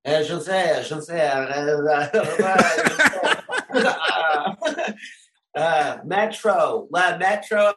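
high, slow, hesitant mock confusion; put-on baffled French local, drawn out; feigned puzzled Parisian. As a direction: stall as if struggling to understand. Feigning confusion to American tourists.

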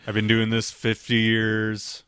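lightly voiced sterile, straight-laced physician; monotone doctor. Co-host joining in as the straight-laced doctor, mildly monotone.

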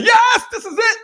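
high, laughing mock yes; laughing mock-excited yes; mock excitement. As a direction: parody of a sudden convert. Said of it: "get excited and say".

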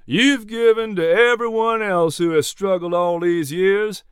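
insistent. A narrator's reading. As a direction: press the point kindly but firmly. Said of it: "Jack insisted".

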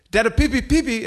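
put-on high kid pleading pee pee; little boy urgently calling dada; toddler voice. Son telling dad he needs to pee, high toddler voice.

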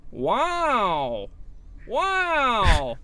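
long, gliding "wow" in a mock Italian accent; stretched exclamations, hammed-up Italian accent. Actor auditioning as an Italian character, drawn-out Italian accent. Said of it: "you can do an Italian accent".

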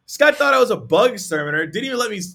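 ordinary talk, nothing marked

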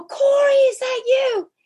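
reliving the moment of spotting him; calling out, amazed. Retold or imitated. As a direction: call out, barely believing it's him. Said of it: "And I go".

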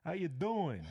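smooth flirty line. Acted. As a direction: deliver it like a cheesy pickup line.

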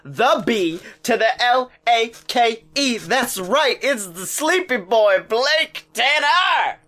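booming circus ringmaster announcing. Acted. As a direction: hype up the crowd like a ringmaster. Ringmaster intro for the podcast.

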